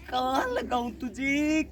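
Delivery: usual speaking voice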